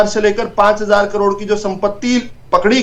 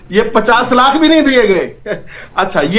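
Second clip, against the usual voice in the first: slow, emphatic words breaking into a laugh; drawn-out, amused dismissal; scoffing laugh; 2 semitones lower, slower than usual. Real, not acted. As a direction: laugh it off as you finish the point. Scoffing laugh at the opponent's case.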